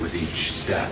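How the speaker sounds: "With each step" shouted, rising on "With". Acted. Teshin threatening the Operator, shouted warning. Whispered then shouted repeat.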